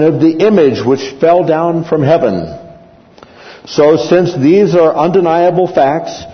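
a lightly voiced official quieting a mob; town clerk addressing crowd. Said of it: "the town clerk said".

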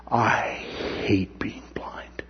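low, hushed despairing inner voice; a broken man's private thought, quietly; voicing the blind man. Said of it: "he's been thinking".

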